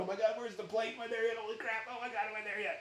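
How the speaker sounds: odd, off-sounding funny voice, high and soft. A teacher shows how students sound looking up at the surface; imitating students' funny voice. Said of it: "when I look at my students are going".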